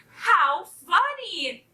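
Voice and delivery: high, slow, drawn-out amusement; tickled kitten, savoring each word; amused kitten. A narrator's reading. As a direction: stretch it out in high-pitched delight. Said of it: "she shook with laughter".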